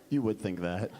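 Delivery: low, savoring the twist; smug Mildred. Retold or imitated. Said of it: "she's like".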